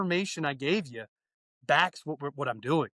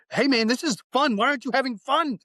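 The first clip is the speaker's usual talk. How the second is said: high, louder and eager, cheering a student on; enthusiastic; 6 semitones higher, 3 dB louder than usual. Retold or imitated. Instructor cheering a student at hose training, enthusiastic. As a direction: pump up a trainee with energy. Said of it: "bring enthusiasm into it".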